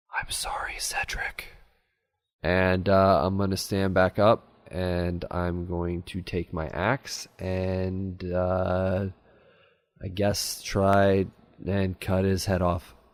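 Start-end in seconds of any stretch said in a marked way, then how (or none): 0.1-1.4 whispered, much quieter voice. A player's character hugs a creature at its last breaths, whispering into his ear. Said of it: "I'm gonna whisper into his ear".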